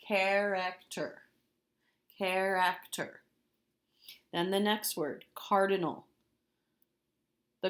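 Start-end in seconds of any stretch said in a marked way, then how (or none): 0.0-3.2 slow, every syllable pulled apart. Shown as a demonstration. Teacher recapping the spelling, slow and syllabic. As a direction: draw the word out for children. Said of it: "T E R".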